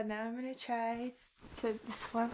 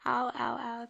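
pained; 2 semitones lower, 4 dB louder than usual. Real, not acted. Hit front tooth.

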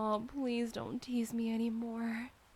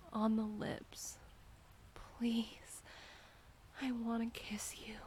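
usual speaking voice

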